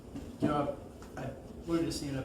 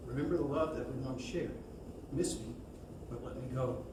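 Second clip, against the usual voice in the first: measured memorial poem reading, paused between phrases. Acted. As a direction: read the verse aloud gently and deliberately.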